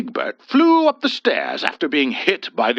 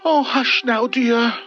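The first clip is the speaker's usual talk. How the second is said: mild soothing hush, higher; 11 semitones higher, 3 dB louder than usual. A narrator's reading. Husband calming his wife, gentle hush. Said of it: "Mister Planchet told his wife".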